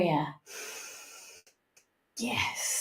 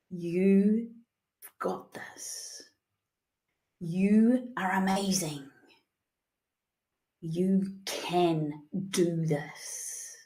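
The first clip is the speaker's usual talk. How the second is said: softer and slow; soft affirmations; 2 semitones lower, 7 dB quieter, much slower than usual. Acted. Coach closing the session, soft reassuring affirmations. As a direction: murmur them like a reassurance.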